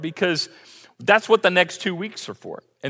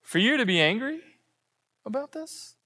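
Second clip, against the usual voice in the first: gentle God; 4 dB quieter than usual. Retold or imitated. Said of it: "The Lord replied".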